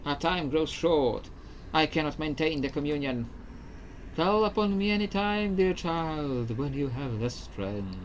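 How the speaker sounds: a weakening spirit saying goodbye; ghost voice. Acted. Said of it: "This is my ghost voice".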